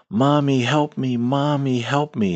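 put-on high, panicked, frightened little girl's scream. Retelling a little girl heard from the backyard at night: imitating a little girl screaming. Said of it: "this little girl screaming at the top of her lungs".

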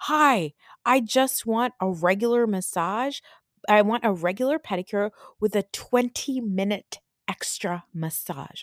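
slow, deliberate, condescending talking down. Retelling how Heather asks the pedicure lady for a massage: imitating Heather's condescending tone. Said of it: "is so condescending".

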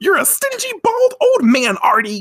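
very high-pitched, angry screaming and yelling. Retelling a woman screaming at a man during their fight: retelling a scream. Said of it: "They're screaming at each other".

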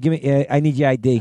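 ordinary talk

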